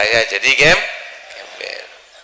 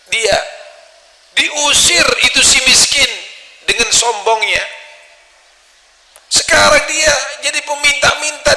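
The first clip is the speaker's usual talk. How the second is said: agitated wife; 10 semitones higher than usual. Retold or imitated. Wife tells husband the beggar's story, high and shouting. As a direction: blurt it out in rising distress.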